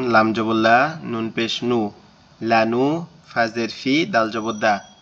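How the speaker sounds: হরফ ধরে ধরে বানান করে বলা; শিক্ষকের মতো প্রতিটি হরফ ও হরকত আলাদা করে বলা; বানান করে পড়া. Shown as a demonstration. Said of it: "আমি বানানগুলো করব". (ক্লাসে শিক্ষক বানান শেখাচ্ছেন, ধীরে ধীরে বানান করে)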